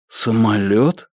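slow, blank repeated question; dull echo. A narrator's reading. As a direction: echo it stupidly, very slowly. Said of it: "тупо переспросил он".

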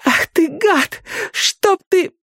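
high, spiteful shriek; cursing girl. A narrator's reading. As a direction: spit out a curse. Girl curses him.

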